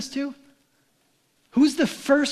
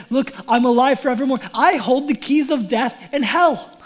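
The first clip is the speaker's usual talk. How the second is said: louder, ringing out as the risen Jesus; triumphant proclamation; 7 dB louder than usual. Acted. Preacher voicing Jesus to the congregation, triumphant and louder. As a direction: declare it like a victor, fast and strong.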